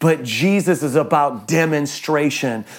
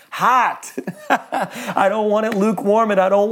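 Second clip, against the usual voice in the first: laughing; 4 semitones higher than usual. Real, not acted. Coffee joke, laughing through it.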